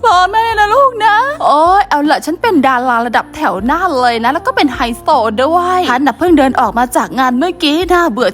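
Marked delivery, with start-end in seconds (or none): 1.4-8.3 snooty star lady. Acted.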